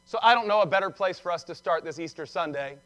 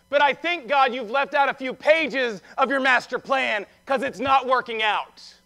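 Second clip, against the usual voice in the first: raised-pitch, exasperated protest; frank complaint to God; 4 semitones higher, 4 dB louder than usual. Acted. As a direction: challenge God with a blunt grievance. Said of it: "God delights in that kind of honesty".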